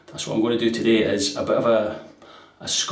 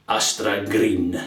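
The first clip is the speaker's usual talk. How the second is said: rolled Scottish R; 3 semitones lower, slower than usual. Shown as a demonstration. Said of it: "roll your R's".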